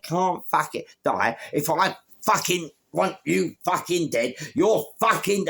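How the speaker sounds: mock-furious threat; retold furious shout. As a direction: rage at him word by word. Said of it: "I was fuming".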